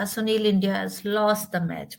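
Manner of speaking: gloomy news with the voice dipping down; understated disappointment, letting the line sink; voice dipped down. Shown as a demonstration. Teacher tells Sunil of a lost match, voice dipped down. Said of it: "My voice has dipped down".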